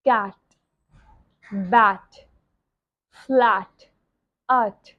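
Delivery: "cat, bat, flat, at" with an open A; open A sound. Shown as a demonstration. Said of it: "आ का sound होता है". ("cat, bat, flat, at" में खुला "ऐ" स्वर अलग-अलग बोलना)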